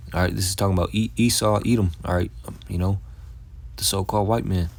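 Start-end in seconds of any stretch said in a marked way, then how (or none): none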